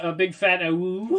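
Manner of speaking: high yipping puppy woo; little wolf pup howl. Acted.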